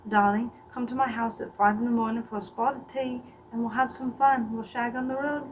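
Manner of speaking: flirty, put-on English accent. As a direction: invite them to tea as a mock Englishman. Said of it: "even the English".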